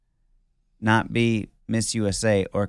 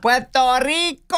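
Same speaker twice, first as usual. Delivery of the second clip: excited cheer; 7 dB louder than usual. Real, not acted. Cheering for Puerto Rico.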